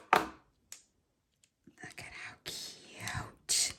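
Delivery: slow, drawn-out whisper; awed whisper. Real, not acted. Crafter showing viewers cute crochet hooks, slow awed whisper. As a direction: whisper it slowly in adoring awe.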